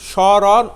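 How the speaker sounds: স্মরণ said "shoron" with no ম sound; স্মরণ starting straight from স with the ম dropped; silent m-phola. Shown as a demonstration. Teacher telling students স্মরণ has no ম sound. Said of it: "ম ফলার যে উচ্চারণ সেখানে নেই".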